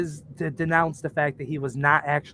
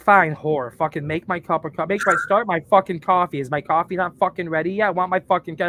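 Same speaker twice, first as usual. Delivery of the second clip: mock yelling; 3 dB louder than usual. Fake fight with his wife over coffee, mock yelling. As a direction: fake argument, a bit louder. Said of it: "I'm yelling at her".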